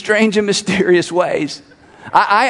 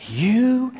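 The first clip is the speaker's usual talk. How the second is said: mock hostile stranger; 4 dB quieter, much slower than usual. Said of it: "She said".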